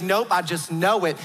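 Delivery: lightly imitated certain Southern grandmother; Southern belle accent. Grandmother answering doubting grandkids, Southern belle accent. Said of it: "She's like".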